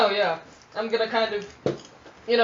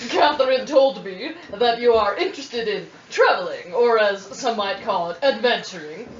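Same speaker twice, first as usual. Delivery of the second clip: bright squeaky sing-song welcome. Acted. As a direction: read it sweet and sing-song. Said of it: "In your character voice".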